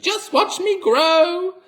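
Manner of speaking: very high, loud, slow screech; Grandma screeching triumphantly as she grows; screechy old hag. A narrator's reading. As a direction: crow it out like a mad witch. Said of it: "she shouted".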